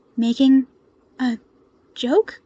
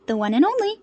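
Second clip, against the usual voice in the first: cheerful; 5 semitones higher, faster than usual. A narrator's reading. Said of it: "Midoriya agreed cheerfully".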